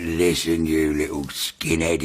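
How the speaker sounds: low, slow threat; voice from hell. Retold or imitated. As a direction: imitate a hellish menace, drawing it out. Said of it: "it just sounded like it came from hell".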